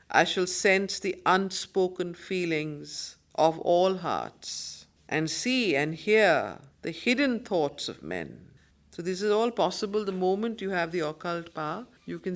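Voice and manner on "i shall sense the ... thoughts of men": slow, solemn reading of verse; poem recitation. Acted. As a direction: declaim each line with grandeur, letting it breathe. Rereads the verse lines.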